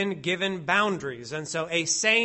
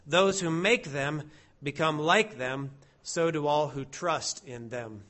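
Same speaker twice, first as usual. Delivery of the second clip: psalm reading. Acted. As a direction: read the psalm aloud as worship.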